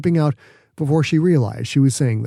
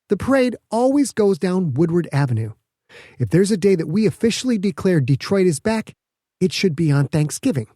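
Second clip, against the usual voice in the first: a lightly raised, eager Petra; mildly higher earnest woman; Petra's voice; 6 semitones higher than usual. Acted. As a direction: voice the scientist a little higher and keen. Petra's lines read by narrator.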